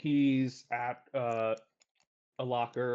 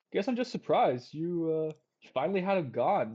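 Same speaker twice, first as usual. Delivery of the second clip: higher, louder mock surprise; taunting Ren; 4 semitones higher, 4 dB louder than usual. Ren taunts Arvin about the rescue, pitched up. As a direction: needle him, pitched up.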